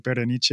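Berenice said the Italian way, ending in NEE-chay; "Berenice" with Italian-style -NEE-chay ending; Italian pronunciation. Shown as a demonstration. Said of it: "like, an Italian accent".

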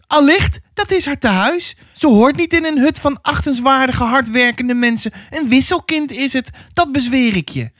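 very high, pressing woman's voice; insistent neighbour woman. Acted. Neighbour woman declares child a changeling. (indringende buurvrouw, hoge stem)

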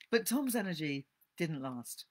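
measured, expressive storybook reading; story narration. A narrator's reading. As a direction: read the classic novel aloud to listeners. Resumes reading after explanation.

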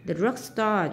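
"drugstore" stressed on DRUG; stress on first syllable. Shown as a demonstration. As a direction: make DRUG the stronger part of "drugstore". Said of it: "nhấn âm một". ("drugstore" nhấn mạnh âm tiết đầu)

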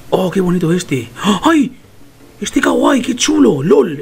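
high-pitched delighted gushing; real excitement. Real, not acted. Player spotting a cute item in the store, excited. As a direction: gush over it, getting carried away. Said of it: "que me estoy emocionando".

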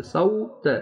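سوت high, as "sau-t"; correct waw glide. Shown as a demonstration. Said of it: "واو کو صحیح طرح پڑھیں گے". (سوت واو لین واضح کر کے)

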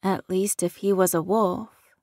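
ordinary delivery, nothing marked

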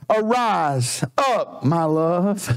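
low, slow, tender call; voicing the beloved. The beloved calling to his bride, low and tender. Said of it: "My beloved speak and said unto me".

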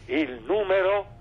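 very slow, suspenseful host; slow quiz question. Acted.

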